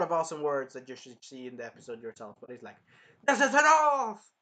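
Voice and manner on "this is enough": high, loud, slow shout; slow drawn-out yell; furious roar. Retold or imitated. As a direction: roar it, done with them all. Shield hero explodes.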